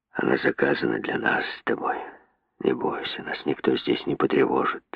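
low, sly near-whisper of a leering man; a lecherous man soothes the frightened girl in a sly whisper. A narrator's reading. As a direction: lean in and hush it slyly, a lecher's secret. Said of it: "Он хитро качнул головой и ответил".

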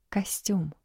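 mumbled into a shoulder, soft; muffled grumble. Acted. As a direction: grumble with face pressed in. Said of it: "буркнула Дарья, уткнувшись в плечо мужа".

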